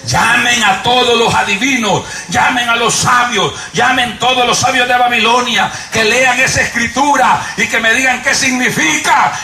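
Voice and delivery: 왕이 학자들을 부르며 절박하게 외침; desperate king's shout. Retold or imitated. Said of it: "Gritó, pidió ayuda".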